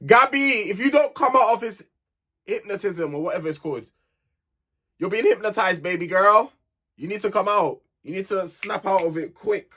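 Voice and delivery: urgent plea. Real, not acted. Vlogger urging Gabby to see through Casey, urgent call. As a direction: snap her out of it.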